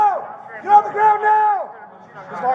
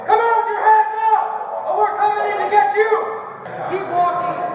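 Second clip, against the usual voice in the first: shouted surrender demands; 3 semitones higher than usual. Real, not acted. Police ordering suspect out.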